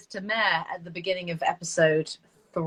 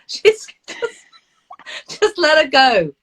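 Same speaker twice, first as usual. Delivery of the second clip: louder, higher mock exasperation; imitating husband; 9 semitones higher, 6 dB louder, slower than usual. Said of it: "I always can hear my husband saying".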